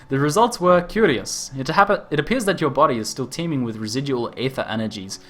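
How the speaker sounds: hammed-up Australian inventor voice; over-exaggerated Australian. Inventor explaining rift gates in a hammed-up Australian accent. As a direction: play a zany Australian scientist. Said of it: "an over-exaggerated Australian ter-, stereotype voice".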